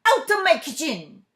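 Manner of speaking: loud high angry shout; chef shouting. A narrator's reading. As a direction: chase them out of the kitchen. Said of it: "shouted the chef".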